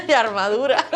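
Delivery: risas agudas y fuertes; ríe del chiste de caballero. Real, not acted. Ríe con el pastor. (se ríe a carcajadas con el pastor)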